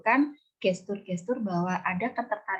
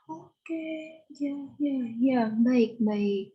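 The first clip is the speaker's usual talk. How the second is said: attentive listener noises; 4 semitones higher, much slower than usual. Shown as a demonstration. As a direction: show an engaged listener nodding along. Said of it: "kemudian gelengan kepala".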